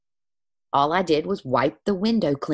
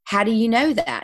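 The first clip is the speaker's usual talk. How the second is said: pitched up, puzzled disbelief; mock baffled client asking how; surprised question; 7 semitones higher than usual. Client baffled the healer knew, surprised high question. Client's shocked reply, retold.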